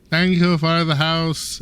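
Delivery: deadpan line with no feeling; bad acting. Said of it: "And it's, like, so boring".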